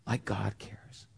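a soft, slow whisper. Acted. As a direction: breathe it out, unvoiced and slow. Sermon drops to hush.

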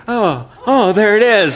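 high, laughing oh-oh of realization. Retold or imitated. Pastor recalling a slip from the pulpit, laughing. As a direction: laugh it out as you catch your slip. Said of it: "it came out of my mouth and I was like".

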